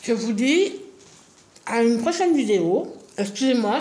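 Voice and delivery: talking with a mouth full; words round a bite of food. Real, not acted. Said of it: "je parle la bouche pleine".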